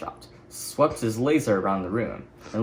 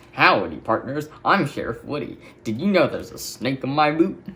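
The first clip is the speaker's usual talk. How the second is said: Woody impression. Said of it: "I can do impressions".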